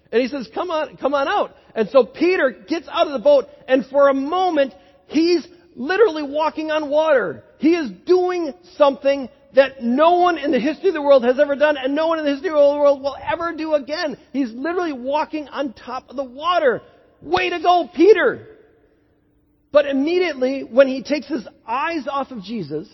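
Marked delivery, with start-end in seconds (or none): 0.5-1.6 higher-pitched, welcoming call; glad invitation. Acted. Jesus glad someone's up for the challenge, pleased invitation. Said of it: "He's glad that someone's up for the challenge". 17.2-18.5 loud, high cheer of praise. Acted. Preacher cheers Peter walking on water, excited cheering.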